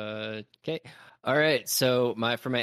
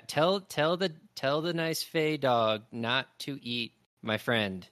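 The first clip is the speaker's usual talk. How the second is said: pleading little creature; 4 semitones higher, slower than usual. Acted. Otherthorn pleading with Ray.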